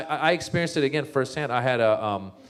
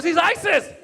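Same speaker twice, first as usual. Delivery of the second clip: mock kid; 5 dB louder than usual. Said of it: "He goes".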